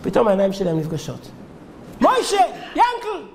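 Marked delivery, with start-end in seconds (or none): 2.0-3.2 high, drawn-out cry of recognition; astonished recognition. Retold or imitated. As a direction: call out both names slowly, amazed at who it is. Old friends recognize each other. (קריאת הפתעה גבוהה וממושכת)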